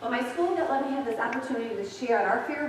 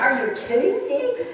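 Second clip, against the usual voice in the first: loud, slow mock disbelief; incredulous; 3 semitones higher, 8 dB louder than usual. Preacher voicing Sarah's loud, slow mock disbelief. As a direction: scoff it out in disbelief. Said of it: "You know, like".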